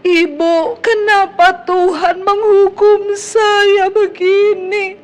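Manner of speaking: high, drawn-out mock crying; acted-out sobbing complaint; imitated tearful wail. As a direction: wail slowly like someone crying down the phone. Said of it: "Dia telepon saya sambil nangis".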